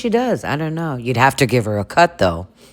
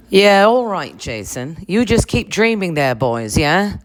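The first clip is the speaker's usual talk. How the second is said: higher, dry, dismissive grande dame; lady of the house; 4 semitones higher than usual. Acted. Lisa brushing off Jason's flirting, dry grand lady. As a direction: brush him off sweetly.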